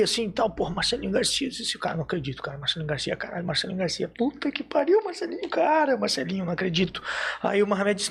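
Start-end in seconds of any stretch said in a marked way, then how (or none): 1.8-7.0 stunned fan losing it over his idol; starstruck disbelief. Retold or imitated. Fan spotting his idol, hushed then squealing.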